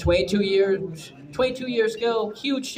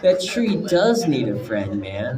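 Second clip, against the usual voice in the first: laughing mellow quote; 3 semitones lower than usual. Retold or imitated. Comic quoting a mellow viewer while laughing. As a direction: giggle through it like a chilled-out viewer.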